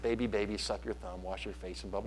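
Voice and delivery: soft, low singsong teasing rhyme; mock taunt. Husband joking about taunting his crying wife, mock singsong. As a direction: tease like a schoolyard rhyme, softly. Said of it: "no, I didn't".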